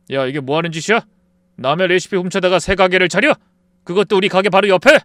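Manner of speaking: loud, rising outrage; furious yelling at an old friend; angry confrontation. Acted. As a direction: shout him down for the stolen recipe. Confronting friend over stolen recipe.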